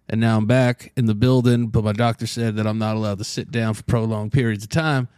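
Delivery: talking lying down on floor; collapsed on floor. Real, not acted. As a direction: speak flat on your back. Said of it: "I'm laying on the floor".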